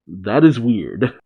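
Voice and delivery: slow, understated mock deadpan; unflappable. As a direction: say it slowly, barely bothered. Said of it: "how unflappable Kaido is".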